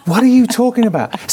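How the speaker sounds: incredulous laugh through the question; laughing disbelief. Retold or imitated. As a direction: laugh as you ask it. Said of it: "everyone behind him's like".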